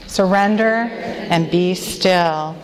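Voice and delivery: slow, weighty reading of the letter's phrase; slow recited phrase. Shown as a demonstration. Leader introducing the acrostic letter to the women, slow and deliberate. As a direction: lay each word down slowly for the room to echo. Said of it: "Say that with me".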